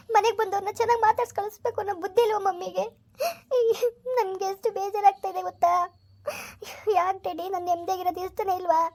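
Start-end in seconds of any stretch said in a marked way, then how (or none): 0.1-5.7 crying. Acted. Daughter crying to father on phone.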